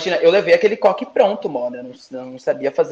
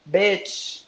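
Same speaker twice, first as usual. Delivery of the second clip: affectionate bitch, said like a pet name; higher, easygoing friendly tease; gentle, friendly intonation; 5 semitones higher, much slower than usual. Shown as a demonstration. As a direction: say it lightly, girlfriend to girlfriend. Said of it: "uma entonação bem branda".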